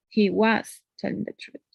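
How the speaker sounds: WAS stretched and set apart; stress on WAS. Shown as a demonstration. Teacher defending Nick's honesty, stress on was. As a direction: punch the word was. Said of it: "emphasizing the verb be".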